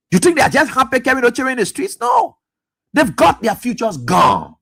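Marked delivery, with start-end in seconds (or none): 2.0-2.4 a much higher, emphatic no; sharp high no. Real, not acted. Caller cutting off his own question, high and emphatic. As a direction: bark the no high. Rant at the president.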